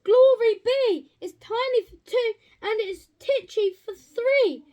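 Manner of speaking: high, loud cry of dismay; exasperated exclaim. A narrator's reading. Old lady despairs at her crowded house, high and loud. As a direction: throw up your hands. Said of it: "The little old lady said".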